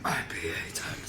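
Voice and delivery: very low, soft comic bit voice; put-on deep voice. Showing a friend the comedian bit, deep voice. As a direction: drop right down for a mock-deep delivery. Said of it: "trying to do the deep voice thing".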